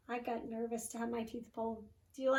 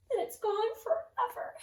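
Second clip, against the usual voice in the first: sadly; 9 semitones higher than usual. A narrator's reading. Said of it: "his little cousin said sadly".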